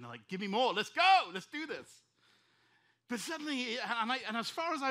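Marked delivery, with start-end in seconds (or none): 0.3-2.0 loud shout leaping up in pitch; adrenaline-fuelled hype. Acted. Pastor acting out his love of pressure, adrenaline shout. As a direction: yell it like you crave more. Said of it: "there's an adrenaline".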